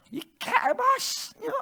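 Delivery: high, slow, strained mock curse; acted cursing. Shown as a demonstration. Preacher shows cursing at the enemy, strained and high. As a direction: squeeze out a drawn-out, high-pitched swear. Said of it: "뭐 욕 나오고 나오는 거야".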